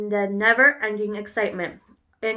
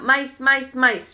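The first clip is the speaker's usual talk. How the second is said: excited cry; 3 semitones higher, 4 dB louder, slower than usual. A narrator's reading. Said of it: "crying out".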